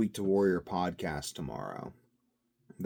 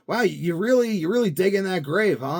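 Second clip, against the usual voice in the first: mock incredulous; 11 semitones higher, 9 dB louder than usual. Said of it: "I'm like".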